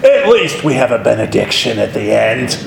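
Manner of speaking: high, stretched-out mock Australian proclamation dropping back at the end; Australian accent. Seminary professor ridiculing students' wretched sermons, in a mock Australian accent. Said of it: "said in his Australian accent".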